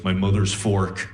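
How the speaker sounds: a creepy trance voice, low and even; imitating girlfriend sleep talking low; eerie sleep voice. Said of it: "looks me dead in the eyes and goes".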